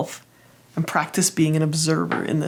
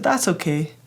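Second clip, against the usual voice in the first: tender reassurance. Acted. Self comforting her young perfectionist part, tenderly. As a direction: soothe a hurting child. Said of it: "from myself, I said".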